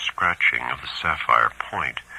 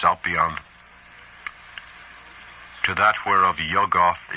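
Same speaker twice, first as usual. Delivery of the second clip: solemn, measured incantation; ritual recitation. A narrator's reading. Narrator reading out the cultist's recorded rite, solemn recitation. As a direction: intone it as scripture, with long pauses between phrases.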